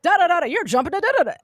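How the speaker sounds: retold angry father. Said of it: "it was like".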